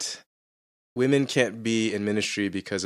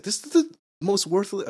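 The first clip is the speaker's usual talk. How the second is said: mock disdain; 12 semitones higher than usual. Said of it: "And I was like".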